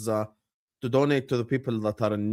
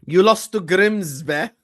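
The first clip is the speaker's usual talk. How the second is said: slow, louder mocking taunt; 4 semitones higher, 6 dB louder, slower than usual. Real, not acted. Streamer taunting a friend who lost to Grimsby, slow and mocking. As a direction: drag it out to rub it in.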